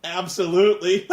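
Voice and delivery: loud gleeful "yes" bursting into evil cackle; hammed-up villain relish, then a long cackle; mock-villain answer exploding into laughter; maniacal laughing villain. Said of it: "literally maniacally laughing at the misfortunes of others".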